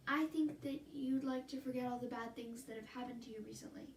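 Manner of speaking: counselor voice. Acted. School counselor coaxing grieving Caitlin, patient and low.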